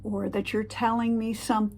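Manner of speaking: breathy demo whisper. Shown as a demonstration. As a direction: drop to a secretive whisper. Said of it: "do not drop your voice to a whisper".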